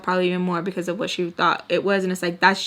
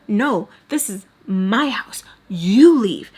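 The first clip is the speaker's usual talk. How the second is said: whispered; slower than usual. Retold or imitated. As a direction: hiss it at him. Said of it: "I'm telling him to leave".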